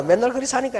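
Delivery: imitating a Gyeongsang wife's casual grumble; Gyeongsang dialect. Pastor quoting the wife about her husband in Gyeongsang dialect. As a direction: say it in light Gyeongsang dialect, shrugging it off. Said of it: "경상도 말로".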